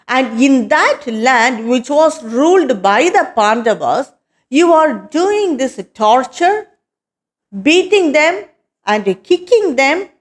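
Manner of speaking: a touch of an angry king; mild thunderous king. Acted. King Parikshit sentencing the disguised king, mildly angry. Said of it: "in his very thunderous voice".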